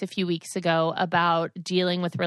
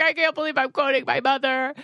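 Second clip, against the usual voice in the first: very high, squeaky tween voice; tween daughter voice; 6 semitones higher, faster than usual. Retold or imitated. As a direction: mimic a horrified eleven-year-old. Mom imitating daughter.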